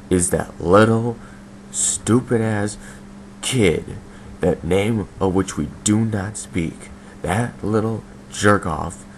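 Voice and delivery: contemptuous sneer. Acted. Venting about a hated kid.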